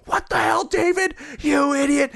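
high-pitched imitation of outraged mother; mock-shriek it, very high; mom freaking out. Son mimics mom scolding dad on the lawn, freaking out. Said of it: "freaking out".

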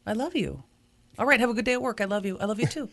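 soft, casual goodbye endearment; everyday affection. Acted. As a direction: send a partner off to work gently. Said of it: "I say".

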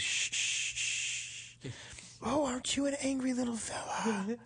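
soft unvoiced shushing then hushed coo; whispering. Dentist cooing to an angry tooth, whispering. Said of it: "And he'd whisper".

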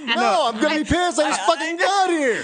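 whiny protest. Retold or imitated. Acted protest at leaving party.

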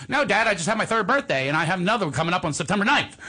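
put-on high, fast chatty little kid; toddler voice. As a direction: rattle it off like a proud toddler. Toddler son correcting dad.

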